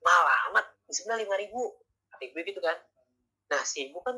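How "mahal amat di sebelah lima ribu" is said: a louder, mock-indignant market mum; hammed-up bargaining, calling the price steep; mother at the market haggling with the vegetable seller, mock outraged. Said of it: "Terus kata si ibu itu".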